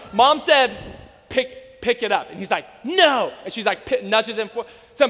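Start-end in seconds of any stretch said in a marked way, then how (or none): 1.3-2.3 controlled parental order. Retold or imitated. Mom to her small son in line, controlled order. Mom's first order to child. 2.8-3.3 raised little-kid refusal, acted; mock a stubborn small child refusing; defiant child's refusal. Small boy refusing his mom in line, imitated defiance.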